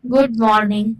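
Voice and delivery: tired and sad. Shown as a demonstration. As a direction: sound drained and a bit sad. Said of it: "फिर आता है tired और sad". (थका हुआ और उदास)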